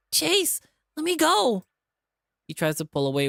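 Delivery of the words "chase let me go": high, loud, slow desperate cry; terrified plea. Acted. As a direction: beg to be released. TJ struggling free.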